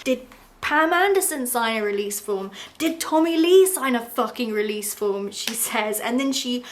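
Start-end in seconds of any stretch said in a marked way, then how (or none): 0.0-5.3 louder mock furious questions; angry demand. Erica confronting Rand, mock furious. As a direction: demand an answer from him. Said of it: "She's like".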